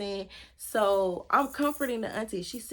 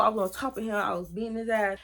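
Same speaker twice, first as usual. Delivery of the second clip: normal talking voice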